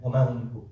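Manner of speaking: "وَمَا هُمْ مِنْكُمْ" low and unemphatic; simple truth. Acted. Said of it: "it's a simple truth".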